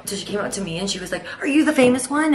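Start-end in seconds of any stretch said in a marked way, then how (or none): 1.4-2.3 high, loud imitation of a nosy neighbor; mock accusing question. Old lady comes up to the seller, mock accusing. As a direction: challenge her like an affronted old lady.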